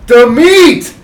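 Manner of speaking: loud, high mock yell; Italian deli guy cussing. Retelling an open-micer's bad impression, deli-guy yell. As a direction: bellow it like a deli man swearing. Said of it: "Italian, uh, guy behind a deli cussing".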